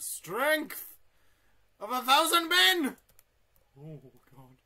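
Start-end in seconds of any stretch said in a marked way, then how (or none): 0.0-3.0 slow boast that bursts into a high, loud roar; mock heroic boast. To the viewers about strength, a hammed-up heroic roar. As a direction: proclaim it like an epic hero.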